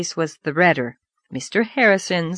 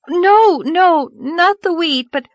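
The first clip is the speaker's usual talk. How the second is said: put-on urgent girl; 11 semitones higher, 6 dB louder, slower than usual. Anne urgent.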